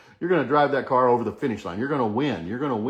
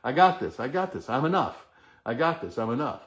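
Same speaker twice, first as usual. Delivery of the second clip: call and repeat affirmation. Shown as a demonstration. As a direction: chant I got this steadily for the group to echo. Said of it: "Say it with me".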